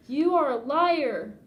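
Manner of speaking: loud, slow, spitting every word; hammed-up furious kid voice; spat-out accusation. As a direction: spit out the last word in a rage. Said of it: "spits out this last word".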